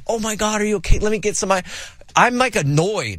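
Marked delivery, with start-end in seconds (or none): 0.1-1.6 high, put-on concern; acted parental fussing, pitched up; sympathetic parent. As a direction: rush in with mock worry for a hurt child. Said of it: "I always thought I'd be the sympathetic".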